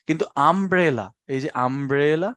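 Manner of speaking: "আমব্রেলা" opening with a short open uh; teacher models "আমব্রেলা" slowly; uh sound demo. Shown as a demonstration. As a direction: say "আমব্রেলা" as um-brella, no yoo. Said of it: "কোনটা উচ্চারণ করছি".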